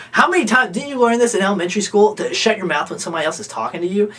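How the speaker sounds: imitating an angry yell, high and loud, then easing off; scolding housemate telling Mike to shut his mouth, mock yell; retold yelling. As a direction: bark the rebuke like a furious housemate, fast. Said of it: "he yelled louder than I've ever heard".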